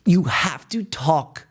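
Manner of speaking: slow, emphatic whisper. Real, not acted. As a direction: lean in and whisper it slowly. Emphatic point about self-talk.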